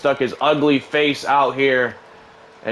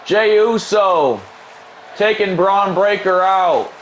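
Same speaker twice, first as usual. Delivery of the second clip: excited call; 6 semitones higher than usual. Acted. Commentator calling the over-the-rope dive to viewers, building shout. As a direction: yell the dive as it happens.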